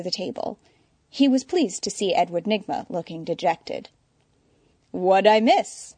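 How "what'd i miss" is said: foppish. Acted. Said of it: "asked the fop".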